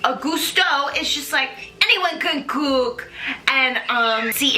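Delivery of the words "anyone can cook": put-on slow, light French accent; barely there French chef accent; mock French chef again. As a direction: draw out "Anyone can cook" like a French chef. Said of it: "in my mind, that sounded dope".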